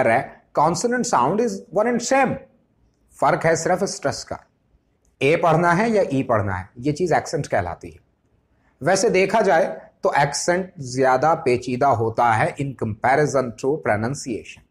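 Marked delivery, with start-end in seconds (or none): 0.6-2.4 very slow, evenly spaced words; slow dictation. Shown as a demonstration. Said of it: "slow dictated rule". 12.6-14.6 slow dictation. Shown as a demonstration. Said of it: "slow dictated phrase".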